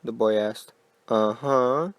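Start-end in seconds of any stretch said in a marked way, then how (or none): 1.1-1.9 sing-song, eerie "Uh-huh"; possessed father answering his son; strangely affected. Acted. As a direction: lilt it like something wearing the father's face. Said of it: "sung the father in his strangely affected voice".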